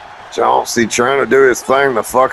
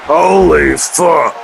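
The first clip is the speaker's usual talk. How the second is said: excited; 4 semitones higher, slower than usual. Real, not acted. Reacts to match win.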